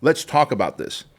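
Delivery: high, loud desperate plea; urgent pleading shout. Pretend. Stranger begging a man with a gun to stop, frantic pleading shout. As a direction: yell at him to stop, frantic. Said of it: "wouldn't Charlie run up to them and go".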